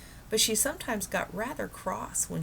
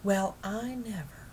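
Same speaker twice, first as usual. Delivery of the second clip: impressed; 4 semitones higher, slower than usual. Acted. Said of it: "very much impressed".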